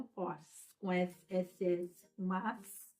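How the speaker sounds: slow phonics demo of the "S" sound; S sound demonstrated. Shown as a demonstration. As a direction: hold the hissing "S", then blend it slowly. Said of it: "Dois S no meio da palavra".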